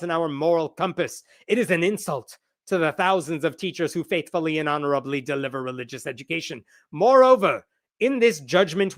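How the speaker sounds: lightly put-on Irish accent; a hint of mock Irish, emphatic at first. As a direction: read his statement in a makeshift Irish accent. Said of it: "this is my Irish accent".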